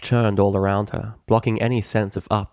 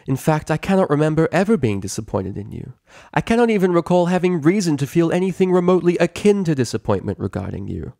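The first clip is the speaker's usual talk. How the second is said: rising royal fury, faster; angry; 8 semitones higher, 5 dB louder than usual. Acted. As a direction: scold with mounting ire. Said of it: "Celestia's ire".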